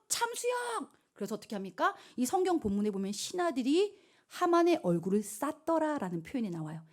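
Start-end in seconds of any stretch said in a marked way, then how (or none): 0.1-0.9 very high, drawn-out decree; acted furious sentence. King sentences Haman on the spot, acted rage. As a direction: explode into a theatrical verdict. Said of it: "또다시 분노 폭발".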